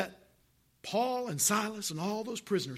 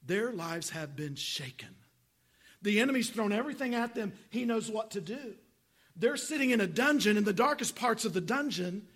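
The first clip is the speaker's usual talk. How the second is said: voicing Jesus; 2 semitones higher than usual. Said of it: "Jesus saying to all those angels".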